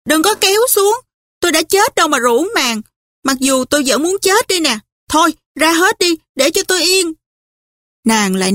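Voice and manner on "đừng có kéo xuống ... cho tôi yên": furious. Acted. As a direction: drive them out of the room in a temper. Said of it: "mặt sưng lên sừng sộ". (giọng giận dữ, cao và to, quát đuổi)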